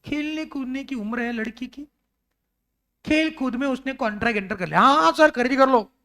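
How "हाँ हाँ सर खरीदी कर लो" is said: put-on child voice. Ten-year-old girl agreeing playfully.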